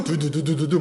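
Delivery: rapid-fire rumbling noise; imitated chariot rumble. Preacher mimics enemy chariots approaching, rapid rumble. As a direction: drum out the rolling chariots.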